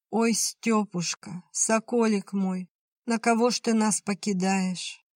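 выше и медленно, напевное причитание; завой, как по покойнику. Acted. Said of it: "Чего воешь, как по покойнику". (невестка причитает, провожая мужа на фронт)

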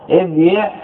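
ابيع said ib-yi', with a sounded y; underlying form. Shown as a demonstration. Teacher recalling the origin of bi', ib-yi' sounded out. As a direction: say ابيع as ib-yi', two syllables. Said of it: "أصله".

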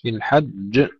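في الحج with a held j then an echoing release; doubled, bounced jim. Shown as a demonstration. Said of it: "تشديد ثم قلقلة". (في الحج بجيم مشددة ثم قلقلة)

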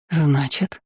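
icy, questioning cold voice. A narrator's reading. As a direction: let it chill the listener. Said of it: "Холодящий душу голос".

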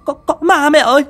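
high, loud frightened cry; terrified scream. A narrator's reading. Widow screams to her mother-in-law about a ghost, panicked. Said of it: "kinh hãi rú lên".

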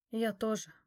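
said on an out-breath; exhaled. A narrator's reading. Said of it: "выдохнул он". (на выдохе)

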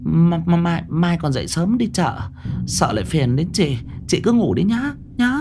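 high, stammering and rushed, repeating words; flustered, stumbling excuse to flee the room; hurried frightened excuse. Acted. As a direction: blurt it out in a panic to get away. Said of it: "một câu nói vội vàng".

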